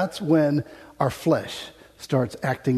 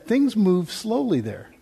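drawn out; 5 semitones higher, slower than usual. Shown as a demonstration. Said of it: "when I say slowly".

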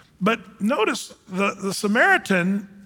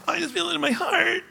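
much higher mocking gushy young voice; mock TikTok youth; 11 semitones higher than usual. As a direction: parody a teen on TikTok gushing. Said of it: "you young people on TikTok".

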